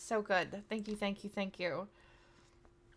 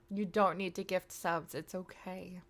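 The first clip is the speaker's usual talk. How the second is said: gentle, restrained insistence; polite reassurance; 2 semitones lower than usual. Real, not acted. Streamer telling mom not to gift subs, polite. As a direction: let her down politely, without yelling. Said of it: "I'm politely telling her".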